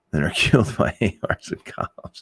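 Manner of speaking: words bubbling out through a laugh. Real, not acted. Streamer cracking up at own blunt comparison, laughing. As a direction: break into a laugh mid-sentence.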